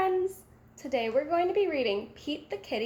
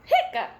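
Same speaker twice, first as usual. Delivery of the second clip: a high, loud hiccup squeak; cartoon kitty hiccup; 10 semitones higher, 6 dB louder than usual. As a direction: burst out one big hiccup. Pete hiccups in story.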